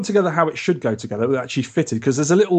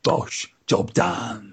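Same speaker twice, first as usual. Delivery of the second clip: Cockney; 3 semitones higher, 4 dB quieter, much slower than usual. Acted. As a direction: toss it out like a Cockney geezer. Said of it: "gone Cockney again, mate".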